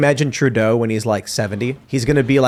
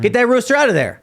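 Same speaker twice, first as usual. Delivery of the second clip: mock farmer; 8 semitones higher than usual. Farmer voiced in analogy.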